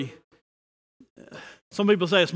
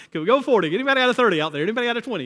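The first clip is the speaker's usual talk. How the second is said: auctioneer; 2 semitones higher, much faster than usual. Retold or imitated. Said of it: "I always picture Abraham kinda like an auctioneer".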